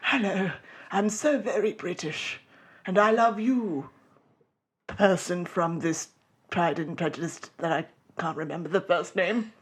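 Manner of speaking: half-hearted posh British suitor; mock British Darcy. Host playing Mr. Darcy confessing love, mild British. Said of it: "Mister Darcy's lines".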